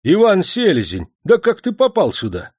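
high, loud amazement; astonished cry. A narrator's reading. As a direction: exclaim at recognising him. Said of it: "в изумлении".

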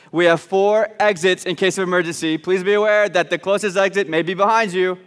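measured cabin-crew announcement, with pauses; mock flight announcement. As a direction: play at making the preflight safety announcement. Mock airline safety announcement.

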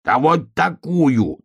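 loud, slow, drawn-out yell; bellowing cub. A narrator's reading. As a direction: bellow it out as the cub slams his paw. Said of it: "завопил медвежонок".

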